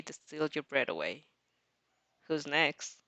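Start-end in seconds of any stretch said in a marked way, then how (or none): 2.2-3.0 challenging villain. A narrator's reading. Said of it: "he asks, challenging them".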